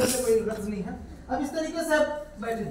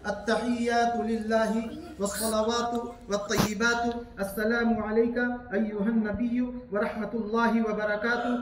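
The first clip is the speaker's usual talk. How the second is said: slow recitation; 3 semitones lower than usual. Shown as a demonstration. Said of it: "अब सुनिए गौर से".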